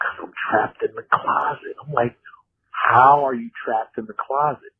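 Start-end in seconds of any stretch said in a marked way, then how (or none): 0.0-1.7 hushed, breathy whisper. Retelling a friend calling him on the phone, imitating the friend whispering. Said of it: "he's whispering".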